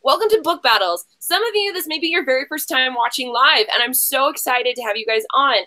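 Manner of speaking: upbeat host intro for live viewers; game show host welcome. Acted. Host welcoming live viewers to Book Battles, upbeat announcer tone.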